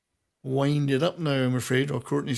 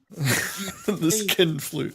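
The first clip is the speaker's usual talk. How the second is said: laughing drawl; 3 semitones higher, much slower than usual. Real, not acted. Joke repeated while laughing, drawn out.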